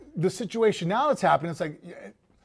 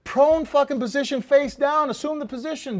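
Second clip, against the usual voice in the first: louder, higher barked police orders; mock cop commands; 7 semitones higher, 4 dB louder than usual. Imitating police ordering a suspect down, loud and high. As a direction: shout commands like an arresting cop.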